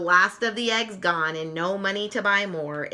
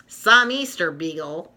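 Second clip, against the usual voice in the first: scoffing; 3 semitones lower than usual. Acted. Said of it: "Lucy scoffs".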